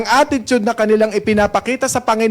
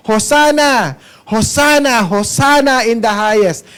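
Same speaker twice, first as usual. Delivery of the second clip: mock crowd shout. Preacher voicing the crowd hailing Jesus, raised praise. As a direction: call out like the cheering crowd. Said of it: "sumisigaw sila ng".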